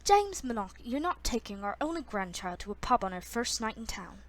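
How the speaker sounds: attempted Irish accent. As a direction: rebuke him with an amateur Irish lilt. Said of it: "I don't know what this accent is".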